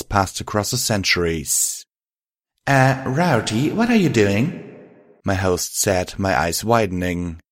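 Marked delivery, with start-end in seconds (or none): 2.7-4.4 higher-pitched, taken-aback question; startled question. Acted. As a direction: ask it with rising, uneasy surprise. Twilight startled by Rarity moving close.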